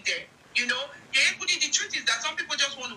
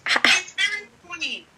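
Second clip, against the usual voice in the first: scoffing laugh; 5 semitones higher, 6 dB louder, slower than usual. Real, not acted. Scoffing at a rival's claims.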